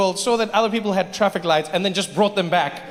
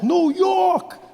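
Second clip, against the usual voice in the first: excited shout; 9 semitones higher than usual. Real, not acted. Calling out the city's name.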